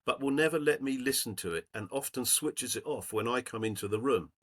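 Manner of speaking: lightly voiced old lady's letter, read aloud; reading an old woman's thank-you note to the group.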